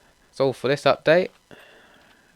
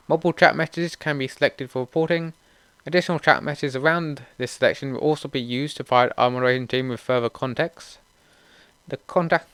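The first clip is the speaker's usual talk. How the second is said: read-aloud update notes; 4 semitones higher than usual. Real, not acted.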